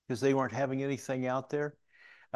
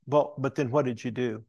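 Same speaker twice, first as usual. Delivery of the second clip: louder, pressing repeat question; insistent questioning; 5 dB louder than usual. Retold or imitated. Dieting lady pressing the pastor for his method, insistent. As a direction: press for the real answer, mildly exasperated.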